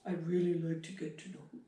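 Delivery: soft-edged, gentle beckoning invitation. Acted. Horse trainer voices a beckoning breath to a horse, beckoning. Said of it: "a beckoning breath is like".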